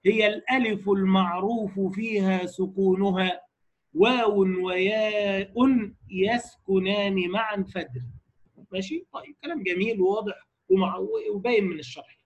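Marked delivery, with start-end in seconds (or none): 0.1-8.0 slow chanted verse recitation; slow intoned poem; recited verse. Shown as a demonstration. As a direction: draw each line out like a memorized poem. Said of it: "قال".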